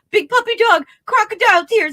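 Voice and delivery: high, fake blubbering; mock crying. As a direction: ham up some crocodile tears. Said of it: "And then he cries".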